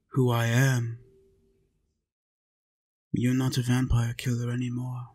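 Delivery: normal talking voice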